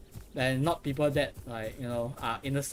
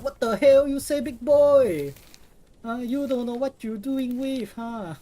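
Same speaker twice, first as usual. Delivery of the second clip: much higher and louder imitation of an Asian accent; loud imitated Asian accent; 10 semitones higher, 7 dB louder than usual. Streamer acts out the prank caller's Asian accent, loud and high. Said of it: "And then he's like".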